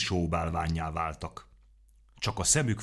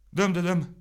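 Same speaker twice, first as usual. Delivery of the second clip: high, pained cry of the name; a pained, high wail; 12 semitones higher, 6 dB louder than usual. A narrator's reading. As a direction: lament it, the second cry louder. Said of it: "siránkozott fájdalmasan".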